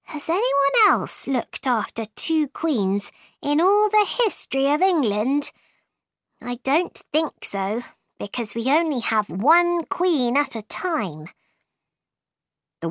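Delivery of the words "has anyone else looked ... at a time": lightly voiced higher-pitched Alice; Alice musing. Alice ponders looking after two queens, lightly voiced wondering. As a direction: wonder aloud in a slightly girlish voice.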